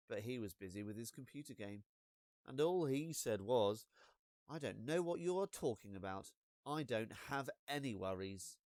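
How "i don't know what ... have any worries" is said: dismissive brother. Acted. Brother brushing her off.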